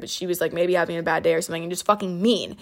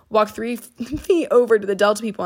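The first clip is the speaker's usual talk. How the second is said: laughing. Real, not acted. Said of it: "Like I said, no one's fucking in this airport".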